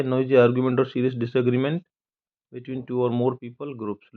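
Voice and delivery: very slow, careful dictionary reading; slow definition read. Shown as a demonstration. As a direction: read each word out slowly for students. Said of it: "reading dictionary definition".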